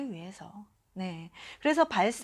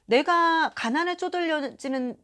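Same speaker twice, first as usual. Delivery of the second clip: ordinary delivery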